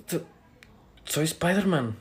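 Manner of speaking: soft, voiced confession; low but audible. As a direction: say it softly but clearly enough to hear. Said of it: "habla bien".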